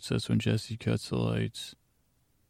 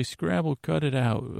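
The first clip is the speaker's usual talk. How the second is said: mild mock yell; 3 semitones higher than usual. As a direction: imitate an aunt scolding a pest, half-hearted. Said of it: "she used to yell out".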